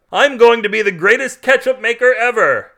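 loud, high, grandiose shout; high-pitched, over-excited declaration; excited proclamation. A narrator's reading. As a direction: announce a wild ambition at full volume. Carl proclaims his new plan.

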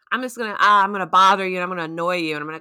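mock pestering. Voices a pesterer's meaning of grief.

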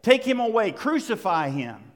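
loud, high mob shout; crowd shouting. Acted. Preacher voicing the mob at the cross, shouting. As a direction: yell it like an angry crowd. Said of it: "They shouted".

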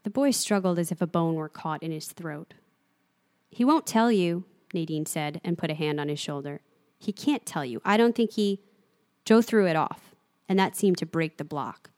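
steady, measured reading of a novel; calm storyteller voice carrying the scene; story narration. A narrator's reading. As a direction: read it like an audiobook narrator. Reads a novel scene aloud.

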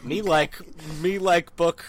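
caveman alien talk. Retold or imitated. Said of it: "sound like an alien trying to pretend to be a human".

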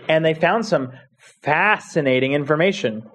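dry sarcastic delivery. Real, not acted. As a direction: say it like it's boring. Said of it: "you say it so sarcastically".

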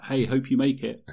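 put-on cheery encouragement; mock well-wishing. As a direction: imitate an over-keen player wishing luck. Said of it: "good luck".

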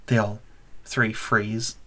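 normal talking voice

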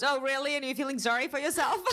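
friend's tough retort. Retold or imitated. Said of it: "And she goes".

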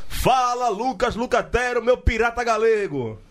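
big announcer-style call-out, high and loud; loud hype intro. Acted. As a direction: belt out the guest's name like a host. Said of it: "eu vou falar baixinho pra você".

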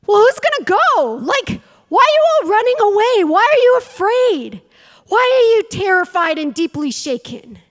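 high, loud disbelieving challenge; shepherd boy challenging the army, high and loud; indignant David. Retold or imitated. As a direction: call out the frightened soldiers in outrage. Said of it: "and he's like".

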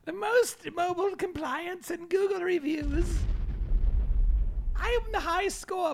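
high nerdy voice. Acted. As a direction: brag like a gamer nerd. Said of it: "nerdy voice".

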